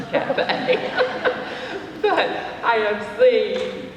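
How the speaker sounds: chuckling through the words; laughing. Real, not acted. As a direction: laugh it off as you speak. Laughing at her own murder remark.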